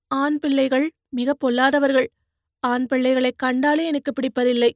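put-on young woman needling the man she pulled from the mud; teasing young woman. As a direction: poke fun at his cries like a sharp-tongued girl. Poonguzhali on men.

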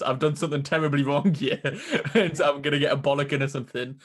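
laughing. Real, not acted. Laughing while retelling reaction.

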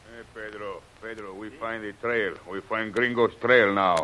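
distant call, faint and far off; calling from afar. Acted. Hunter calls to Pedro from far away, distant and faint. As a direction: shout it from far down the trail.

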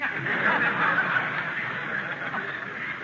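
high airy chuckle; pleased self-satisfied laugh; smug laugh. Acted. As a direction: laugh at your own joke. Laughs at own joke.

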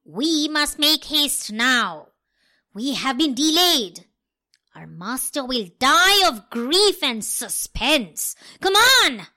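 loud, urgent pleading; urgent cat. Acted. Cat urging the dog home to the master, loud. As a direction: hurry him along as the cat.

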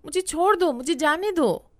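put-on a squirming child calling out to break free; struggling child pleading. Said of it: "बच्ची छटपटाने लगी और कहने लगी".

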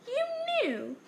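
high, stunned "you knew"; can't believe they hid it; shocked disbelief. A narrator's reading. Harry stunned, asking the Dursleys, high and shocked.

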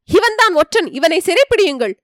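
he points and yells for the guards; crying out. Acted. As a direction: call out to seize the spy. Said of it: "என்று கூவினான்".

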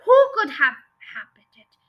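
loud burst on the opening words; narrator's indignant yell. A narrator's reading. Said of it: "he yelled".

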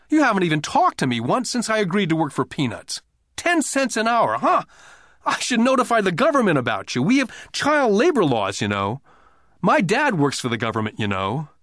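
put-on high, loud childish threat; a kid threatening to tell on him; defiant boy. A narrator's reading. Boy threatening Rich Dad.

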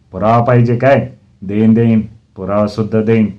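loud, indignant teacher; angry threat. Acted. Teacher to sobbing pupil wanting proof, angry threat. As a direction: throw the demand back threateningly.

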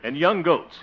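speech opening. Acted. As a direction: launch grandly into a campaign speech. Candidate opens his speech.

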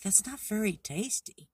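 high, loud storybook complaint; unimpressed little frog. Acted. Frog dislikes the flowers he tried.

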